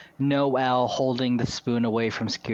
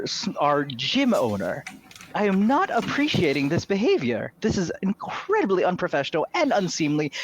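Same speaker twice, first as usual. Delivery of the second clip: high, authoritative committee-head scolding; Deb Arlega; 6 semitones higher than usual. Acted. Committee head to woman harassing the gym owner, high and disapproving. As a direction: tell them off in a high, imperious voice. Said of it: "she walks up and she goes".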